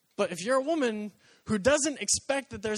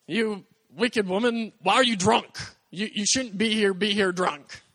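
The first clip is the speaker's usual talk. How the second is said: loud, slow, scornful rebuke; accusing priest; 6 dB louder than usual. Acted. Priest confronting weeping Hannah at the temple, loud accusing scold. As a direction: thunder at her like a self-righteous priest.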